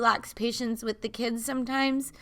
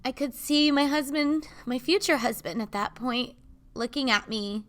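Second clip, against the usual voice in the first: emotional; 3 semitones higher than usual. Real, not acted. Remembering her wedding, tearful and emotional. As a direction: voice rising and tight with real tears. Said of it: "sorry to get emotional".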